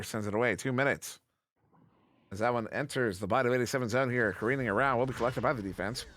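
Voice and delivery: quick, lively sportscaster call; live play-by-play. Acted. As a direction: call the action as it happens.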